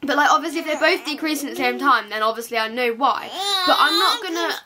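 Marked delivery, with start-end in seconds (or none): 2.1-4.5 crying. Real, not acted. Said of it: "sorry I'm crying".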